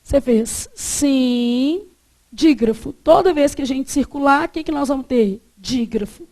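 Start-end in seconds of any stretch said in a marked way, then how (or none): 0.0-1.9 sim arrastado com vogal nasal; slow nasal sim. Shown as a demonstration. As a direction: esticar o sim pelo nariz. (sim nasal lento)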